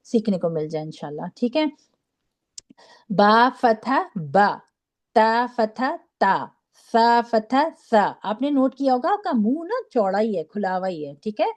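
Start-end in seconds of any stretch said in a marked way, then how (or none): 3.1-8.1 slow "با، تا، سا", each ending in a wide open aa; open-mouthed vowel. Shown as a demonstration. Teacher showing students the fatha, slow and open-mouthed. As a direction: spell out "با فتح با" slowly with the mouth open. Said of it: "سیدھا منہ کھول کر ادا کیا جاتا ہے".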